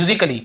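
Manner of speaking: "musically" said as myu-zik-lee, A dropped; silent A. Shown as a demonstration. Teacher models the word for students, "musically" with silent A. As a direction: say "musically" with no A before the ll. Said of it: "ये musically ऐसे बोलते हैं".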